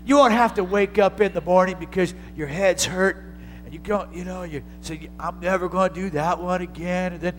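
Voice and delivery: gentle voice of Jesus. Retold or imitated. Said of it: "when Jesus called me, he said".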